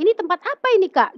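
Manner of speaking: high-pitched, puzzled retold question; bewildered question. Acts out bewilderment at strange place.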